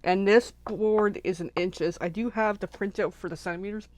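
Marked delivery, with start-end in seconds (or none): 2.0-3.9 talking through a burp. Real, not acted. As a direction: burp while speaking. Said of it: "Excuse me as I'm burping".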